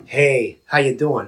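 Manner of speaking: low, easy hey; alternate reading. Shown as a demonstration. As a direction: drop the pitch on a casual come-on. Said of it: "read it thirty different ways".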